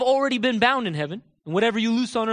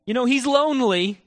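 mock pleading prayer. Preacher parodies praying for lonely leper, mock pleading. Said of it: "Is this how Jesus talked?".

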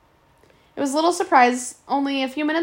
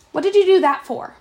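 shocked outburst; 6 semitones higher, 5 dB louder than usual. Acted. Sword thrown in river.

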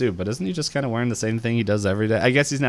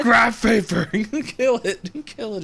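Grenda shouting; 12 semitones higher, slower than usual. Retold or imitated. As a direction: shriek it like stomping a bug. Grenda stomping on the paper.

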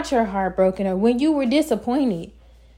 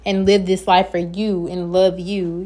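fussing; 3 semitones lower than usual. Real, not acted. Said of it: "Yes, I'm fussing".

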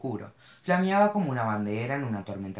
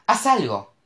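high, loud desperate shout; 9 semitones higher, 8 dB louder, slower than usual. A narrator's reading. Mo screams at Cash in the runaway car. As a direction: scream it at him. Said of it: "gritó".

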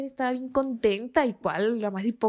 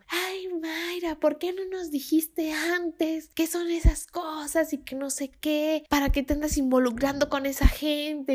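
higher, slow scolding; a mock scolding from dad, pitched up; angry father; 5 semitones higher than usual. Dad scolding Mayra over the phone, mock angry. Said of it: "mi papá súper enojado".

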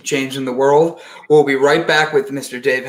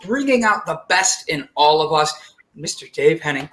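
announcer intro. Acted. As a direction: build up the guest like an emcee. Host introduces the guest.

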